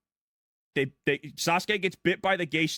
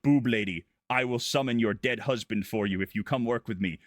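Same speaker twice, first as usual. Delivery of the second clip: a hint of a lower, sly villain voice; lightly voiced snake villain; 6 semitones lower than usual. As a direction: drop the pitch a bit for the sneaky villain.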